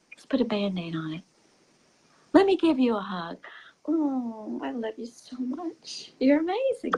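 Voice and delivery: put-on gather the child in, tender; tender parent. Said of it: "just like".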